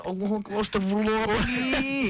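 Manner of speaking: high, scandalised Malay exclamations; shocked Malay local. Retold or imitated. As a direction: gasp out astagfirullah in shock. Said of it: "Melayu will be like".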